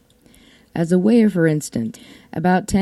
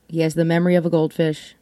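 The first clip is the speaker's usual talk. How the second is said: faster, stress moved to of; faster repeat; faster than usual. Shown as a demonstration. Repeating the line to listeners, quicker with of stressed. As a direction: rattle it off quicker, hitting of.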